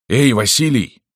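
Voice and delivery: high call from far above. Acted. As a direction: call up to him. Calling down from above.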